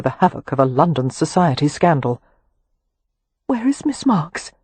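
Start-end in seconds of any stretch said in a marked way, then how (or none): 3.5-4.5 muffled, as if into cloth. A narrator's reading. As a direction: speak through a muffled voice. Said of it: "in a muffled voice".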